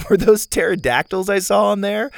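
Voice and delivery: a hint of a spunky girl; Zeta girl voice.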